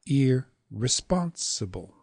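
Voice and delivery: "irresponsible" with held "ir", quick "re", long "spon"; "irresponsible" slow, opening long-short-long. Shown as a demonstration. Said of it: "long, short, long".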